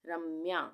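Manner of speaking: रम्या as "ram-mya" with a held m; रम्या, m closing the first syllable; half m sounded. Shown as a demonstration. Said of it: "आधे म का उच्चारण हो रहा है".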